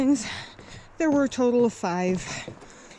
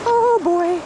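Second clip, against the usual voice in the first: stamping feet for warmth; 7 semitones higher, 6 dB louder than usual. Real, not acted. Icy water.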